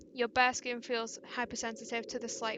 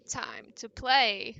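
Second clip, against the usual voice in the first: slow, louder, mock-sinister line; bad villain impression; 6 dB louder, much slower than usual. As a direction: ham up a menacing captor, drawn out. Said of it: "That's a really bad impression".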